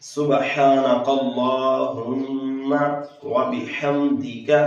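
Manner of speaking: formal chanted recitation; tajweed recitation. Shown as a demonstration. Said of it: "एक मरतबा हम फिर इसको पढ़ते हैं".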